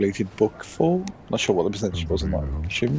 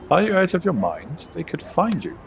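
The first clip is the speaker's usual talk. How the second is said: much higher, urgent rebuke of a reckless caller; alarmed scolding; 8 semitones higher than usual. Acted. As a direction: hiss it like they're putting you in danger. Acted phone quarrel, game dialogue.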